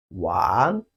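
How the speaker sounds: low dipping wan; Chinese wan. Shown as a demonstration. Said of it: "The Chinese word for ball is wan".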